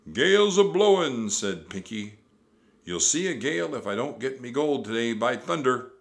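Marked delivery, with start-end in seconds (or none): 0.1-1.3 high, loud pirate shout; Pinky. A narrator's reading. Pinky warns over the storm. 2.8-5.9 loud, raised pirate shout; Captain Bones. A narrator's reading. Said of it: "Captain Bones shouted".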